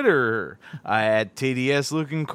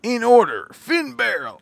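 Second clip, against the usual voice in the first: announcer voice. Pretend. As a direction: ring announcer calling the card. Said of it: "How's that for my announcer voice?".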